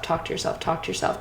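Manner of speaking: soft whispered repeat. Acted. Coaching listeners to talk to themselves, whispered. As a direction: breathe the words like a secret to yourself.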